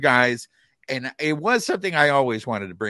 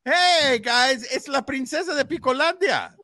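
excited announcer; 9 semitones higher, 4 dB louder than usual. Acted. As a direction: announce her like royalty arriving. Announcing the guest's arrival.

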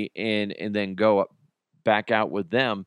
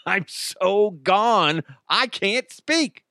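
laughing; 8 semitones higher, much slower than usual. Real, not acted. Laughing recalling being high.

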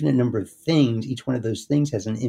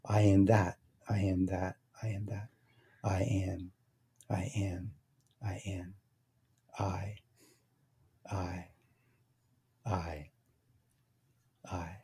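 fading mantra; 2 semitones lower, 10 dB quieter, slower than usual. Shown as a demonstration. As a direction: let each repetition sink further toward silence. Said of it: "drop the last word until I go".

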